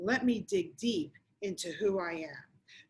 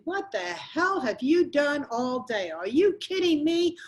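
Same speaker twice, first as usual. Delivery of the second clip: mock angry husband, higher and louder; retold yelling; 4 semitones higher, 5 dB louder than usual. Husband yelling at his wife on the couch, mock angry shout. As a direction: snap at her like the husband home to no dinner. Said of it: "he started yelling at me".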